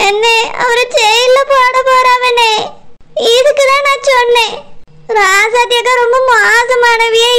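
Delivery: whimpering, crying complaint; tearful. Acted. Wife lamenting to her brother that husband faces jail, tearful. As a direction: lament through tears. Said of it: "எதுக்கு இப்படி அழுதுட்டு இருக்கா".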